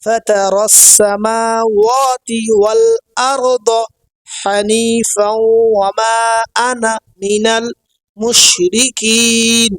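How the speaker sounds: slow, measured Arabic recitation with long held vowels; drawn-out teaching recitation, phrase by phrase; dua recitation. Shown as a demonstration. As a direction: recite the whole prayer carefully for learners. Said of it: "শেষ পর্যন্ত পড়ে নিই".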